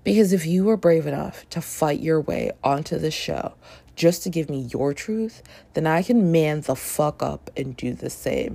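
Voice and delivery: earnest read of the hero's line. Shown as a demonstration. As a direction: read it like you mean it. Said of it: "I'm starting now".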